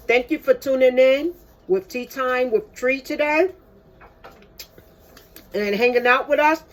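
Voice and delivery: talking while chewing; mouth full. Real, not acted. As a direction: speak round a bite of muffin. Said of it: "Don't talk with your mouth full".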